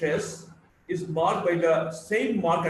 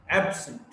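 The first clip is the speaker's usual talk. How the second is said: AB-sent, absent stressed on AB; first-syllable stress; 3 semitones lower than usual. Shown as a demonstration. Teacher highlighting stress, absent as AB-sent. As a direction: hit AB in absent, fall on the rest. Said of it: "stressed word I'm trying to highlight".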